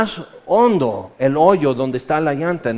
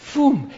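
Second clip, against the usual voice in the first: swish sound; 10 semitones higher than usual. Shown as a demonstration. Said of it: "corta el agua como cuchillo".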